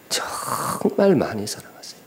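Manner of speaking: 정말 stretched long at an ordinary pitch; slow, weighty repeat with a long 정말; drawn-out 정말. Real, not acted. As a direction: linger on the first syllable of 정말.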